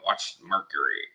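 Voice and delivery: high, fast mocking blowhard voice; imitating Alex Jones. Mocking Alex Jones bragging about his telescope, high and fast. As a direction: ham up a boastful loudmouth. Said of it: "this is what Alex Jones is saying".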